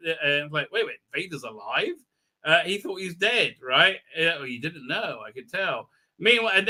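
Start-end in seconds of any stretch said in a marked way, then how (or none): 0.7-2.0 questioning, rising at the end; puzzled double-take; mock disbelief. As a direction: react with understated incredulity. Character learns shocking news.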